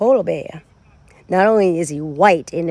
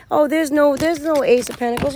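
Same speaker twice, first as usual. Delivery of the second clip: mock innocence; 6 semitones higher than usual. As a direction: play dumb like the liars. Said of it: "they say".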